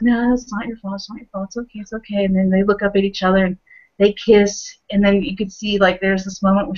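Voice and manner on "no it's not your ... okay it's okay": gentle comfort, fading to soft; calm her down, getting quieter; soothing. Retold or imitated. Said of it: "He's like".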